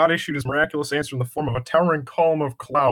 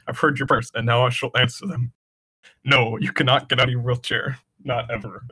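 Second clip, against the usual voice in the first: booming voice. Acted. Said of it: "booming voice said to Timmy".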